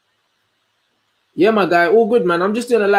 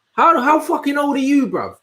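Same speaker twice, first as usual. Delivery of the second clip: real incredulous outburst, pitched high; 9 semitones higher than usual. Real, not acted. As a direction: pitch jumps up in disbelief. Disbelief at a viewer's comment.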